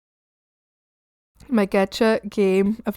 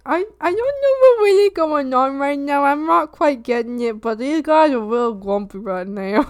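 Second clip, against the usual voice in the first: confused onlooker frog; 4 semitones higher than usual. Retold or imitated. Frogs watching the grumpy ones, bewildered. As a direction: silly voice starting high, settling down. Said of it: "They're like".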